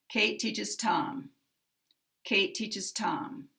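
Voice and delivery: Tom longer and stronger, then sliding down; teacher's model, strongest stress on last word Tom. Shown as a demonstration. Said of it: "Tom is going to get the maximum".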